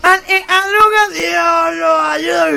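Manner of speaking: refrán nasal, agudo y alargado; presidente gangoso. Acted. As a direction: lanza el dicho como gangoso imitado. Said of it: "voy a decir un dicho". (orador gangoso proclamando un dicho)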